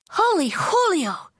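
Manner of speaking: high, drawn-out kitten squeal; excited squeal. A narrator's reading. Kitty boy exclaims at the mirror, squealing. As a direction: squeal it high, stretching the words. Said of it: "squealed the kitty boy".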